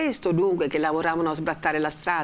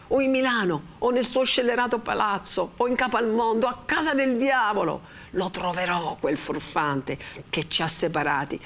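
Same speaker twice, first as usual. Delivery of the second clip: rekindled rage; 6 semitones higher than usual. A narrator's reading. Renzo swears revenge on the man who parted them, furious. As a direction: spit out the threat with mounting anger. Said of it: "a cui la rabbia riaccesa".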